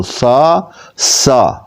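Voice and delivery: سا crisp, no whistle on the s; سا spoken cleanly, no whistle; sa without whistle. Shown as a demonstration. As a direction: say سا with no hiss, thick and full. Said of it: "سیٹی کی آواز نہیں آنی چاہیے".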